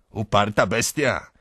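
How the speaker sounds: loud jeer from the crowd; shouting. A narrator's reading. Crowd around the beaten horse, shouting. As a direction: shout it as an exasperated onlooker. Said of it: "krzyczą dokoła".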